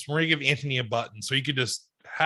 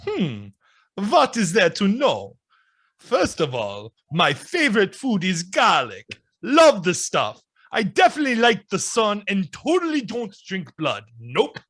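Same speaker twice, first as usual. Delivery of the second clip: lightly voiced Dracula. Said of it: "me as Dracula".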